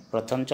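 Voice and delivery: "प्रथम च" said as "prothom cho"; Assamese letter name. Shown as a demonstration. Teacher naming the Assamese letter for students, "prothom cho" pronunciation. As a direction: say "प्रथम च" with rounded o vowels. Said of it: "इसका उच्चारण कैसे होता है".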